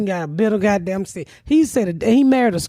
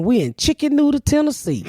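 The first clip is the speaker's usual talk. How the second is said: lightly voiced brother misreading a sign; imitating dumb brother; 7 semitones higher than usual. Mocking her brother's misreading of the highway sign, lightly voiced. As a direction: brother proudly misreading Chattanooga. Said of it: "that nigga read that sign and said".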